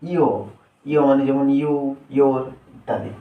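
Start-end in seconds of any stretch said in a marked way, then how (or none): 0.0-0.3 ইও said as Y's glide sound; letter sound demo. Shown as a demonstration. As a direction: sound out ইও as one gliding syllable. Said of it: "ওয়াই এর সঠিক উচ্চারণ হলো". (ইও আলাদা করে উচ্চারণ)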